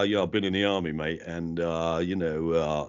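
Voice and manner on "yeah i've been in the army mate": lightly imitated rough army-lad accent; hint of matey squaddie accent; Prince Harry. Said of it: "he's sort of got the".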